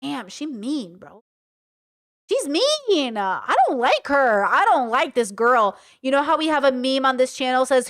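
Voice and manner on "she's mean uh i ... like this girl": exclaiming disapproval. Real, not acted. Reacting to a partner's mean messages, exclaiming disapproval. Shocked reaction to insults she reads.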